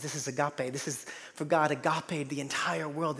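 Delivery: normal talking voice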